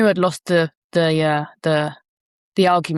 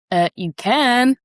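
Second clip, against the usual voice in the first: drawn-out, higher contradicting voice; inner voice talking back; 4 semitones higher, 4 dB louder, slower than usual. Acted. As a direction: stretch it slowly, pitched up. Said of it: "that voice just goes".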